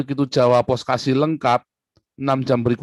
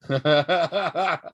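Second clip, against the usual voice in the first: evil laugh; 4 semitones higher than usual. Acted. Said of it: "Ciri khas ketawa jahat".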